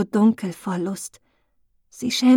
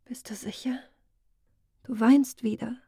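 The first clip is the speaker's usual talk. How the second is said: whisper; 3 semitones higher, 4 dB quieter than usual. Acted. Glenna whispering back to Muriel, who is crying. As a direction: breathe it, no voice at all.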